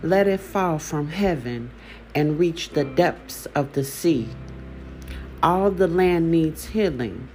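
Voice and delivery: measured poem reading with falling line endings; poem recitation. Acted. Host reads her healing poem to listeners, measured poetry recitation. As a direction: recite it line by line, pausing after each phrase.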